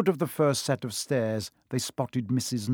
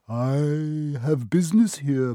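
croaked; 3 semitones higher, 3 dB louder, slower than usual. Acted. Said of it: "croaked Harry".

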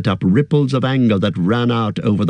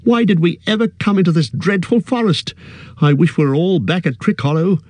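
wild lament; 8 semitones higher than usual. A narrator's reading. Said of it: "cried Frodo wildly".

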